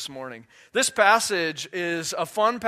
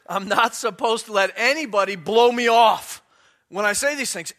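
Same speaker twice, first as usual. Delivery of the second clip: loud, higher, forceful declaration; emphatic insistence; 4 semitones higher, 8 dB louder than usual. Acted. Preacher refusing to be disregarded, emphatic insistence. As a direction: build to a punch on the last words.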